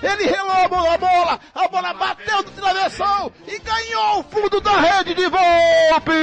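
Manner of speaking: explosive goal commentary. Real, not acted.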